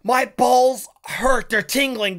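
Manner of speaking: ordinary talk, nothing marked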